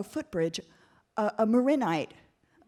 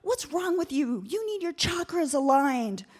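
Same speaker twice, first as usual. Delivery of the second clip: mocking retort, a little slow; imagined snarky insult; sarcastic comeback; 4 semitones higher than usual. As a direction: needle her about chakras. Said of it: "I could have said".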